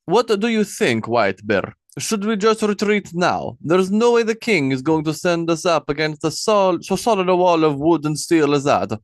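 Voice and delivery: nervous soldier questioning the plan; doubtful Osmond. A narrator's reading. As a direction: Osmond doubting the king to White Bear. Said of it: "Osmond said".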